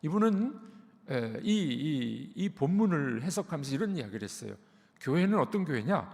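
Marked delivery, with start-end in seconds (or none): none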